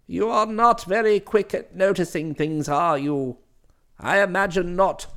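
stern domineering matron; formidable aunt voice. Acted. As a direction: lecture him like a severe aunt. Same candidate explains.

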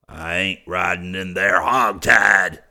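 angry shout. A narrator's reading. Bryant refuses to ride bound.

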